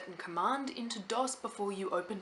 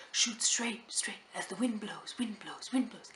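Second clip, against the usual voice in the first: ghostly voice. Retold or imitated. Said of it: "this ghostly voice that said".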